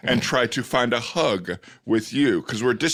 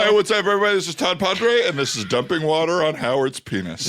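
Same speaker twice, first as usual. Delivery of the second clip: radio DJ voice; 3 semitones higher than usual. Pretend. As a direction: open the show like a shock jock. Playing a shock jock host.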